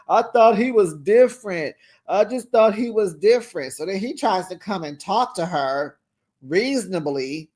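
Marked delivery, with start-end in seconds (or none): 0.1-3.7 louder, hammed-up heartbroken whine; mock disappointed girlfriend. Vlogger mimicking the girlfriend's disappointed complaint. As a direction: play her as let down and sulking. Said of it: "she over there talking".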